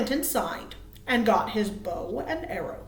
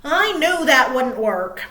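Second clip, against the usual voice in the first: Little Bird; 9 dB louder than usual. Acted. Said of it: "said Little Bird".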